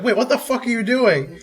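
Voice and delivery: retold shock. Hearing their song on TV, laughing shocked outburst. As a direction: blurt it out half laughing in disbelief. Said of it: "I'm like".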